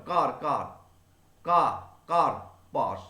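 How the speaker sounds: কার repeated with stress; stressed first syllable. Shown as a demonstration. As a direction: lean on কার each time. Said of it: "কার উপর চাপ দিচ্ছিলাম". (কার অক্ষরে জোর)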